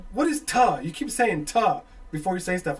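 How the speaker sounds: high, loud exasperated query; puzzled Southern guy. Retold or imitated. Southern caller asking about a word, mock bafflement. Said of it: "It's like from Southern guy".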